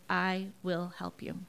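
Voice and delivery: soft unvoiced whisper; whispered close. Real, not acted. Preacher closing the verse in a hushed whisper. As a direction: breathe the promise out. Sermon ends softly.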